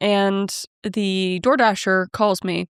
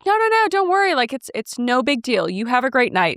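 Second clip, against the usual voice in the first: eager reassurance. Retold or imitated. Reassuring the upset girl.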